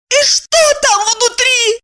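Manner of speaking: voiced heroine, high and curt; Evdokiya's voice. A narrator's reading. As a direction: cut him off sharply in a high voice.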